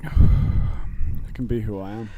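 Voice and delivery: slow, put-on mock voice. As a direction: draw it out slowly in a put-on voice. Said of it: "go like this a bit then".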